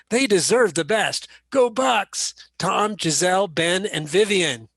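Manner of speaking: lightly voiced football star; a hint of a pumped-up quarterback; Tom Brady football voice. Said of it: "I'll put on my very best football player voice".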